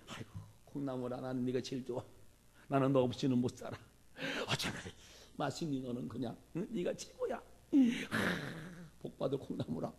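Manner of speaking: mock doting praise. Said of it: "칭찬을 하고 축복을 하고".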